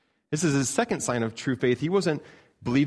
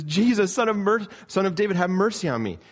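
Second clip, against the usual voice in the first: much higher and louder desperate cry; calling out louder; 9 semitones higher, 5 dB louder than usual. Retold or imitated. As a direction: shout it over the crowd, pleading. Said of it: "He calls out again louder".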